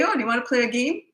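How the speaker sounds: high, friendly offer imitating mom; imitated mother, no anger. Mother to child after discipline, imitated friendly offer. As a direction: ask it sweetly, as mom did, without anger. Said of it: "There was no anger".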